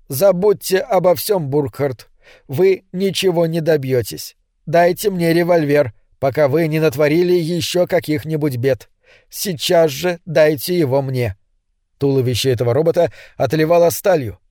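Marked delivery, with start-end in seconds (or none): 0.1-11.4 flat metallic machine voice; metallic robot voice. Acted. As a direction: speak like a steel robot, even and cold. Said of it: "Он сказал металлическим голосом". (металлический голос робота)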